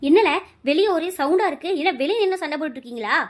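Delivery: loud, sharp scolding outburst; angry scolding. Acted. Mother-in-law bursting out at the quarrel outside, loud and angry.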